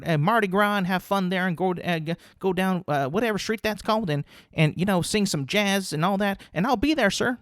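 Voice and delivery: a hint of an overeager new coach; coach accepting job. New coach thanking the school: lightly voiced eager gush.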